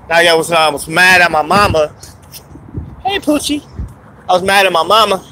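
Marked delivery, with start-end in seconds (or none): 3.0-3.6 high-pitched greeting. Real, not acted. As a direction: greet a pet in a high, small voice. Greeting aside amid the rant.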